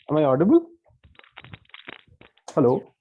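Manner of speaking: ordinary talk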